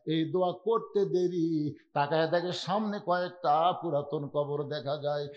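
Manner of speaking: chanted telling with drawn-out endings; measured plaintive waz chant; melodic sermon narration. Acted. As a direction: intone the last wishes line by line.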